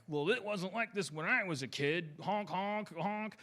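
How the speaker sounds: a mock cranky elder complaining and honking; grumpy old folk. Mocking older folks griping about the good old days, a cranky old-timer voice. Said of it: "start to go like".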